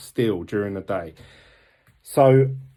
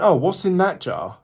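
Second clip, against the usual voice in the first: curious question; 7 semitones higher, 4 dB louder than usual. Retold or imitated. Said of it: "I said to her, I went".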